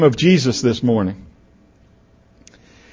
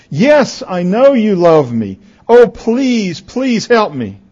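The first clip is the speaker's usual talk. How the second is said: higher-pitched, acted plea; desperate pleading; 8 semitones higher, slower than usual. Boy on a cliff begging the voice, pleading. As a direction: plead like someone hanging on.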